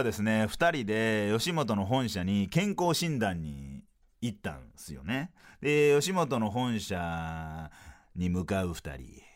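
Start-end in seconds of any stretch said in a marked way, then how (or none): 5.6-9.2 sports commentary style. Pretend. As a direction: call the approach like a race finish. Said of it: "スポーツの実況風にフリートークせよ".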